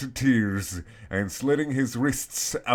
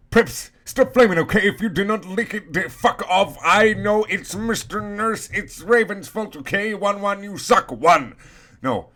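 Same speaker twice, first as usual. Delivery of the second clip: ranting author's note; 6 semitones higher than usual. Acted. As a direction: snap at the haters like an angry teen author.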